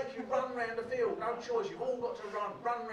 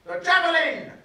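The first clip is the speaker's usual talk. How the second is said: pompous safety lecturer; 4 semitones higher, 11 dB louder than usual. Retold or imitated. Teacher giving the boys a dramatic javelin safety lecture, booming. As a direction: boom it like a self-important teacher scaring kids.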